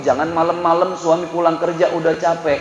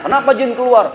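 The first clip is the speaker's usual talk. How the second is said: puzzled husband; 8 semitones higher, 3 dB louder than usual. Acted. Husband asks the jinn.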